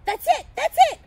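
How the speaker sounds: high, loud burst of delight; gleeful shout. A narrator's reading. Narrator hits on an idea for Santa, gleeful shout. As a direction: exclaim as an idea strikes. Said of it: "I shouted with glee".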